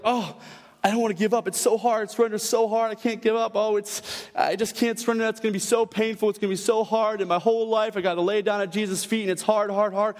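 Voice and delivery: run-on, droning protest; lightly acted moan of reluctance; mock complaining. Acting out reluctance to surrender.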